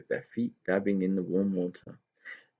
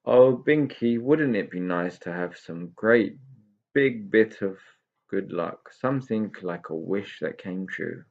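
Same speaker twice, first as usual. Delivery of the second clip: a small pixie sighing for a bit of luck; wistful pixie voice. Acted. Pixie dreaming aloud.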